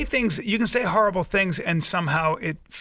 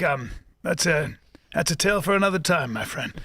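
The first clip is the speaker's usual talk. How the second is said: put-on wise old storyteller. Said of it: "I wanna be the guy who's like".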